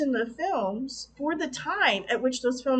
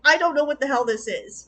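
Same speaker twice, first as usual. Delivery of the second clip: louder, half-exasperated giving in; grudging resignation; 6 dB louder than usual. Retold or imitated. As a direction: shrug it off and go along, annoyed. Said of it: "I'm like".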